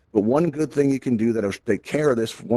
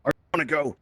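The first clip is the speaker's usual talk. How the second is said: higher-pitched repeat at normal volume; imitating someone approaching; 6 semitones higher than usual. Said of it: "they'll be like this".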